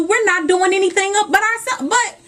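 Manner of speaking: getting choked up mid-pep talk. Real, not acted. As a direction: let the feeling catch in your throat as you push on. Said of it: "I get choked up when I think about it".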